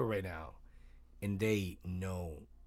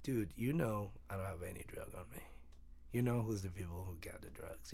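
voiceless, hushed aside to the agents; hushed retold whisper; 6 dB quieter than usual. Retelling what he said to border agents.

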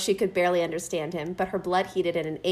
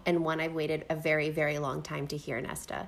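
tender; 4 semitones lower, 3 dB quieter than usual. Acted. Reading Cassian's declaration tenderly.

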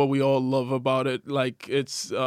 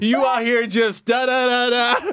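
mock blind guy bit; 8 semitones higher, 3 dB louder than usual. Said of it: "He's like".

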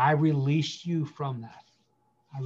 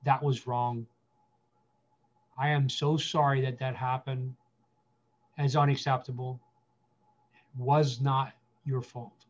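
gentle, a bit lower sorry from a stand-in dad; stand-in father's apology; 3 semitones lower than usual. Pretend. Pastor speaking as the absent father to hurt listeners, gently sorry. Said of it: "let me stand in that and say".

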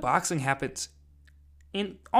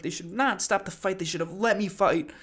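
mock indignant protest, slightly raised pitch; mild imitated outrage; mildly pissed-off retelling; 4 semitones higher than usual. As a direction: imitate a sore loser protesting. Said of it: "Lawrence gets all pissed after".

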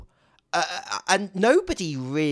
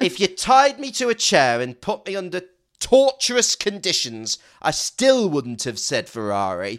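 louder, higher, building mock-dramatic insistence; emphatic comic exaggeration; 4 semitones higher, 5 dB louder than usual. Real, not acted. Pundit insists even torture wouldn't make her pick Ferrari, loud and emphatic. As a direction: overstate it for the laugh, leaning on still.

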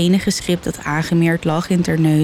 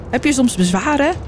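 almost friendly; 6 semitones higher than usual. A narrator's reading. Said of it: "vroeg hij bijna vriendelijk".

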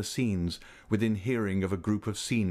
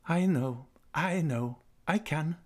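happy laugh; 7 semitones higher, slower than usual. A narrator's reading. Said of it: "she said with a happy laugh".

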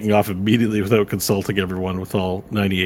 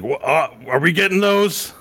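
higher, rising hopeful question; curious Nash; 8 semitones higher than usual. Acted. A Nash eyeing the elven speeders, curious and hopeful. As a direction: pitch climbing as the question goes on. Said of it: "one of the Nashes looks over and he's like".

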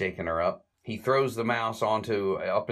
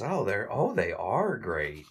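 gushing delight; 2 semitones higher, slower than usual. Retold or imitated. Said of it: "Eleanor loves this and says".

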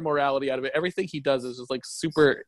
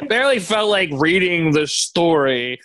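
mock soul-sucked, worn-out narrator; hammed-up weariness; drained reader; 5 dB louder, slower than usual. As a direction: imitate a reader who has given up, dragging it out. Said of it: "it sucked Charlotte's soul out".

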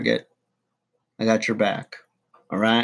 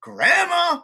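high call. Acted. Calling out to grandma.

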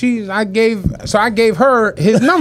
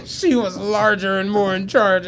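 quiet laughing repeat; 5 dB quieter than usual. Real, not acted. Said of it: "I'm like".

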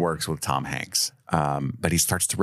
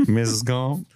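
creepy principal; 6 semitones higher than usual. Retold or imitated. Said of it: "the principal's a creep".

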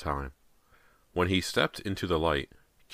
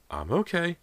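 reassuring; 13 semitones higher than usual. A narrator's reading. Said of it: "Missus Fraser assured him".

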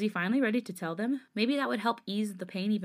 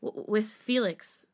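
tearful stammer; 3 semitones higher, much slower than usual. Acted. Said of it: "as his breath became heavier than before".

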